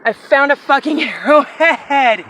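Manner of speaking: laughing through the words, slowed; giddy laugh mid-sentence. Real, not acted. Laughs while repeating it.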